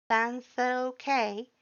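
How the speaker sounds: small, high, slow and hopeful; a shy skeleton asking softly about Sans; quiet hopeful voice. A narrator's reading. Butch asks the reader quietly about Sans, small hopeful voice. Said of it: "a quiet, hopeful voice asked".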